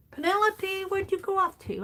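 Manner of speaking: high sing-song calling. Real, not acted. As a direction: call for her playfully. Calling for a lost figure.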